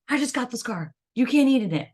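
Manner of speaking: put-on guard your new car like a proud teen; bossy teen owner. Sixteen-year-old friend warning about eating in the new car, mock bossy. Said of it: "They're like".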